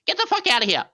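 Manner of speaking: loud disgusted shout; outraged shout. Retold or imitated. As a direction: yell it in disbelief. Retold outraged reaction.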